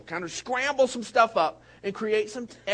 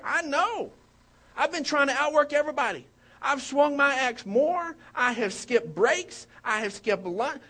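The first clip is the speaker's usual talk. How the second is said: a worker begging to know why he's fired; upset protest; 5 semitones higher than usual. Retold or imitated. Logger protesting being fired.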